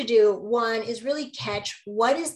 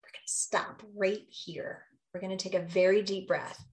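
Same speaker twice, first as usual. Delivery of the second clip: hushed self-calming; 5 dB quieter than usual. Real, not acted. Calming herself mid-conflict.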